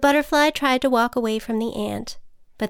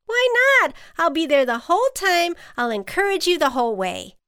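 high, loud plea that settles down; animated storybook ant, urging; eager ant; 7 semitones higher, 4 dB louder, faster than usual. A narrator's reading. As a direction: coax with bubbly insistence.

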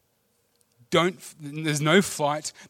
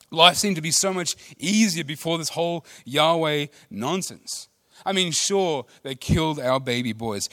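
sarcastic grumbling; 2 semitones higher, 4 dB louder than usual. Retold or imitated. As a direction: ham up the ungrateful people complaining. Mocking the grumbling Israelites.

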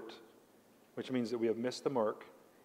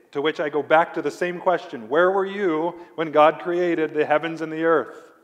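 louder, rising preacher's challenge; 4 semitones higher, 9 dB louder than usual. Real, not acted. Preacher confronts the self-made man loudly. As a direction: throw the question at them hard.

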